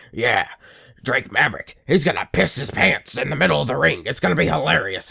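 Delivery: put-on voice of a smug writer; lightly voiced smug booker; mocking imagined fan. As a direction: sneer like someone who thinks this is comedy gold. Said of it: "who's sitting in the back like".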